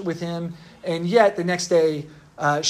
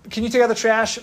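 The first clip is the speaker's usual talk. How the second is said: lightly voiced parent asking, pitched up; parent's request; 6 semitones higher, 3 dB louder than usual. Preacher voices a parent asking a child, lightly acted request. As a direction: ask a chore in a higher voice, as a parent would. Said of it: "mouthed off to your mom or dad".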